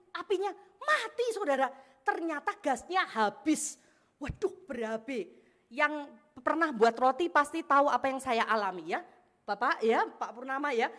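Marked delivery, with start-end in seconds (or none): 0.1-5.3 high, drawn-out retold shock; dismayed discovery. Preacher reveals the gas ran out mid-bake, dismayed. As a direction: stretch out the alarming discovery.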